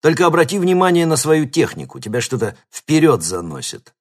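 coach calling out. A narrator's reading. Coach praising runner.

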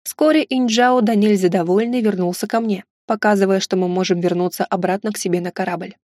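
plain reading voice

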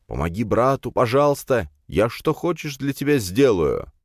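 high-pitched, wheedling begging; whining plea. A narrator's reading. Friend begging a brother for help, whining high. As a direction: beg a brother, stretching the final promise. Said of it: "прервал я его бесконечные завывания".

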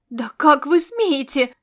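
loud, slow outraged protest; indignant. Acted. Marian, bound, protesting loudly at the commander. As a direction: spit out the outrage word by word. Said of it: "возмутилась Мариан".

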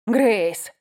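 shouted name, out of breath; roaring name. Acted. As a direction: roar her name, panting. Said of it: "взревел он".

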